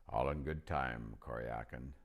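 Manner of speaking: low, calm lion voice; patient and unhurried, like a king; Aslan voice. Acted. Aslan answers calmly.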